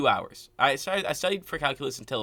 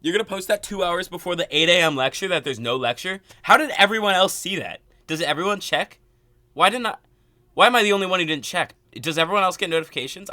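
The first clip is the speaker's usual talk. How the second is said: rising, louder and louder in disbelief; exasperated rant; 5 semitones higher, 6 dB louder than usual. Real, not acted. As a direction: vent the outrage, voice climbing high. Ranting about the missed announcement.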